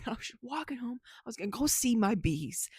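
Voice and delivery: hushed whisper, like telling a secret tale; storyteller whisper. Retold or imitated. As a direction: lean in and whisper the story to them. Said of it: "a storyteller way of they talk".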